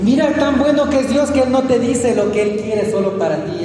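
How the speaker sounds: emphatic pulpit appeal; forceful preaching. Acted. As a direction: lift the sermon into a high exhortation. Preaches with raised voice.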